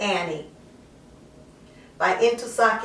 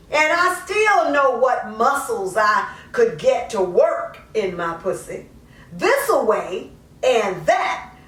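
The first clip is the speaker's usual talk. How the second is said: lightly voiced mother justifying herself, conversational; poem in character; 5 semitones higher than usual. A mother explains giving up her daughter, lightly in character. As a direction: speak it as the mother, half confessing, half defending.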